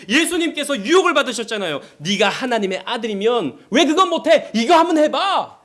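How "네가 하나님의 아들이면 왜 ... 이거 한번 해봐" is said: lightly voiced tempter, raised pitch; tempting devil. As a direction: goad with a higher-pitched challenge. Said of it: "마귀가 우리에게 그렇게 시험한다고요".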